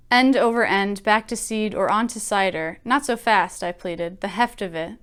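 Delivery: measured, even poetry reading; poem reading. Acted. Teacher reading a poem to her writing class, measured.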